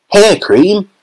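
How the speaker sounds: high disbelieving question; incredulous cry. A narrator's reading. Mike Teavee reading the storeroom door, incredulous cry. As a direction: scoff at the idea. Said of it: "cried Mike Teavee".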